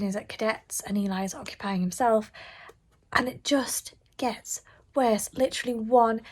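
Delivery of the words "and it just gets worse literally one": weary whisper. Real, not acted. Tired reader confiding the book got worse, whispered. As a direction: sigh the words out.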